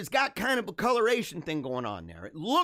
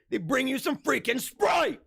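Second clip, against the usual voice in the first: exasperated rant; 6 semitones higher than usual. Real, not acted. Ranting about lemonade.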